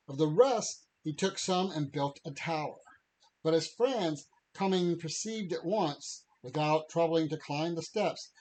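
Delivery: measured, formal passage reading; reading aloud. Acted. Podcaster reads Tolkien's allegory to co-host, reading aloud. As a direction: read it out like a written allegory.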